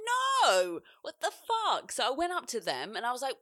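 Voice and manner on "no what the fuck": high, loud mock outburst; retold outburst. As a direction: throw it out sharp and high. Confronting abusive boyfriend, retold.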